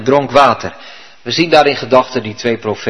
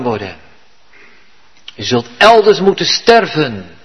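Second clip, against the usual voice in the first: higher and louder rebuke, swelling in the middle; stern prophet's rebuke; 4 semitones higher, 4 dB louder than usual. Acted. Old prophet condemning the young prophet, loud and stern. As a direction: denounce him with authority. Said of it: "staat daar met macht en gezag".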